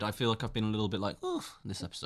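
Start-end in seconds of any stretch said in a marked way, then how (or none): 1.2-1.6 high, soft puff of tiredness; quiet, high exhausted huff; weary "oof". Retold or imitated. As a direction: let out a small worn-out "oof". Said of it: "I'm so tired".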